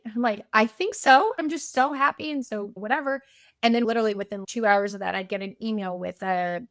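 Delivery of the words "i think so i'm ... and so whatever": higher, louder mock-teary voice; teary reply. Wife answers worried husband through happy tears, teary. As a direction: squeak it out like you're half crying. Retelling crying over gift cards.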